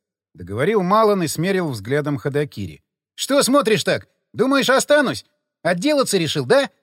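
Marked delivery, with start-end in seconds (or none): 3.1-6.7 gloating. A narrator's reading. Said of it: "Злорадно расхохотался Павел".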